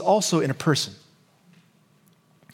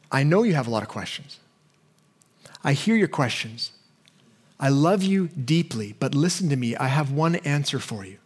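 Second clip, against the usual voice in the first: lower, softer reassuring voice; God speaking to us; 3 semitones lower, 3 dB quieter than usual. Retold or imitated. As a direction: speak gently like a loving father answering. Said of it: "It's as if he's saying to us".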